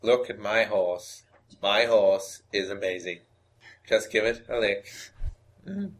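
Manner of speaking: lightly voiced narrator impression, deliberate pauses; Morgan Freeman. Co-host improvising the made-up reading, light narrator impersonation. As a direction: recite it like a measured storyteller, lightly put on. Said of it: "perfect my Morgan Freeman impression".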